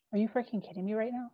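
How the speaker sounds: mild, hushed disbelief at an absurd order; retold disbelief. Girlfriend answering the vacuum complaint, incredulous.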